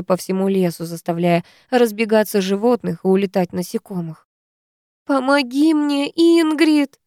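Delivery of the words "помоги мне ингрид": higher, tearful plea; crying. Acted. Woman in labour crying to Ingrid for help, tearful. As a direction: plead through tears. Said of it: "плачет женщина".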